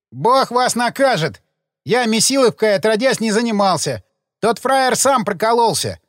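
rattled and lashing out; agitated outburst. Acted. Rattled gravedigger cursing the detectives, agitated. Gravedigger upset, slipping into jargon.

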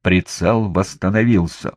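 usual speaking voice

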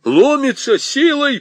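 hoarse straining call. A narrator's reading. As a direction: rasp it out with effort. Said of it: "прохрипел солдат".

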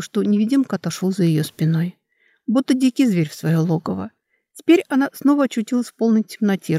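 ordinary delivery, nothing marked

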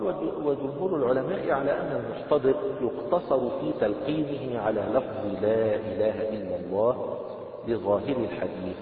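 slow, loud, measured recitation of the book; formal text reading. Acted. Teacher reading the book text aloud to the class, slow formal recitation.

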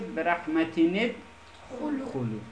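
"رحمتینت" as rahmatini-d, then "خلو"; read with kasra. Shown as a demonstration. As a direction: add a short i after the n in "رحمتینت". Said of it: "حالا دیدیم که خوانده شد".

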